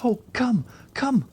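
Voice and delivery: high, frantic come; panicked urging. A narrator's reading. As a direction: beg her to hurry.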